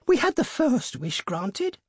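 high, drawn-out insistence; feverish. A narrator's reading. Old woman arguing for another wish, feverishly. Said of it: "said the old woman feverishly".

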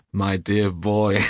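loud, slow, hugely amused; roaring with laughter. A narrator's reading. Trevor mocking his friend's blunder, bursting with laughter. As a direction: boom it out on the edge of laughter. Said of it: "burst into a roar of laughter".

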